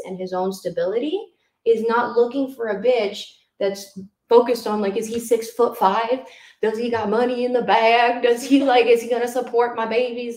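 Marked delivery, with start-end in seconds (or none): 5.0-10.4 lightly put-on redneck lady voice; mock a demanding redneck woman, a bit louder; redneck white lady. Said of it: "I sound like a fucking redneck white lady".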